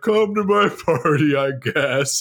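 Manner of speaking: put-on gloomy voice, drawn out, totally deflated. Retelling a friend's teasing about a party invitation: imitating a gloomy Eeyore invitation. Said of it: "you were fucking Eeyore".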